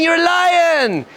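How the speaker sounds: rally them, stretching the key words; rousing insistence. Acted. Rabbis come up to the student, rousing insistence.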